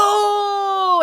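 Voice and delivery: long, high-pitched group "Oh!"; drawn-out, high mock game-watching cheer; imitated crowd reaction. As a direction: imitate a roomful of fans reacting to a play. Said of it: "waiting for everybody inside to go".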